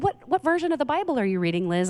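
pastor dad. Retold or imitated. Pastor dad questions his young daughter about her Bible, lightly voiced. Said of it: "my pastor dad saw me reading".

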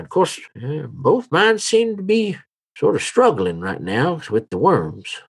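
lightly voiced old local; old townsman, chatty. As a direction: gossip lightly as an old townsman, pitch swinging up. Game master plays a townsman.

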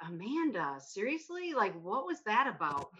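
incredulous inner reaction, pitch jumping on "seriously"; mildly exasperated retold challenge; retold indignant disbelief. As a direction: replay calling someone out in disbelief. Retelling her indignant reaction.

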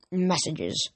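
grumbling mutter to himself. Acted. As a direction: mutter it bitterly under your breath. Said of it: "he muttered".

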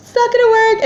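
high panicked wail; acting out hopeless alarm; screaming. Patient on the phone from a bathroom stall, screaming. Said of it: "screaming in this, in the stall".

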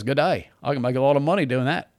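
rough attempt at an Australian accent; lightly put-on Australian accent, quick delivery. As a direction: toss it off in a loose Australian accent. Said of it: "How was that for an Australian accent?".

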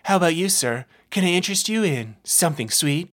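lightly voiced sugary clown woman; flirty clown vendor. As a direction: tempt him with sweets. Clown woman offers sweets.

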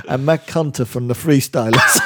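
laughing imitation. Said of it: "and then he said".

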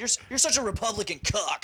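mocking insult. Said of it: "everybody was calling each other a cuck".

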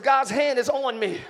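loud and sure of it; confident. Shown as a demonstration. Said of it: "Say it with confidence".

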